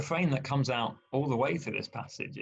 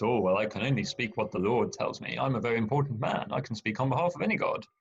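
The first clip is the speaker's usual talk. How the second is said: mock pompous. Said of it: "So he says".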